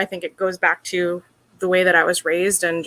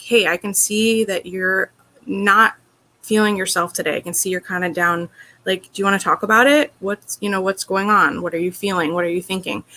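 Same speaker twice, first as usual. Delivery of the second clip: gentle caring ask. Shown as a demonstration. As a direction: coax a partner to open up, kindly. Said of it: "say to me, like".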